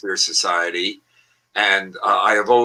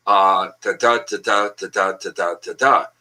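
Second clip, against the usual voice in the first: steady da-DUM rhythm, five beats; iambic da-da rhythm. Shown as a demonstration. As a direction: tap out the da-DUM beat evenly. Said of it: "an iamb is the dum".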